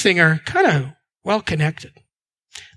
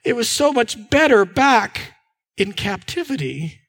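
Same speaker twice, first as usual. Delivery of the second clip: mild acted moan, sinking at the end. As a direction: grumble wistfully for what was left behind. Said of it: "start to moan a little bit, going".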